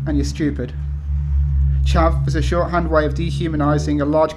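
steady, measured reading of a personal essay. Acted. Author reading title essay to audience, measured read-aloud. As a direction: read it out firmly, phrase by phrase.

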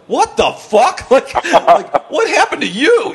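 high, slow stunned what-the-fuck with a laugh; shocked staff. Retold or imitated. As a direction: play the gawking staff, drawn out and high. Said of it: "the entire staff just looks up, like".

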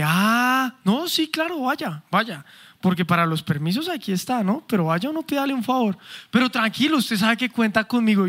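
mock-accommodating sarcastic boss. Boss answering an employee asking to leave early, sarcastic. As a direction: grant the favor with obvious sarcasm. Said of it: "y es el sarcasmo".

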